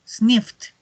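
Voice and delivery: "sniffed" ending in a voiceless t; final T. Shown as a demonstration. Teacher drills past forms, "sniffed" ending in a clear T. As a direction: add a released T to close "sniffed". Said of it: "Al final suena como una T".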